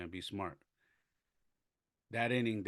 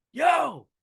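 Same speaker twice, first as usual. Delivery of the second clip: big, high-pitched holler; retold yell; 17 dB louder than usual. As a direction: holler loudly across the field, re-enacting it. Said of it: "So I yell".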